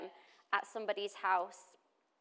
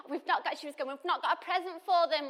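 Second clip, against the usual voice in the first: put-on worried child; 8 semitones higher, 7 dB louder than usual. Daughter gasping, worried.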